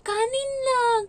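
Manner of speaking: fighting back tears over plain rice; tearful. Real, not acted. To her viewers, near crying about having only rice to eat. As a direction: voice breaking with tears, high. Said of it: "naiiyak ako sa part na yun".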